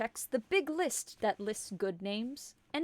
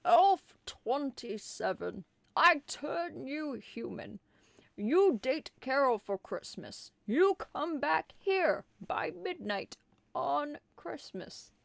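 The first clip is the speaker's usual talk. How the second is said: commanding Santa; 3 semitones higher than usual. Acted. Santa gives orders.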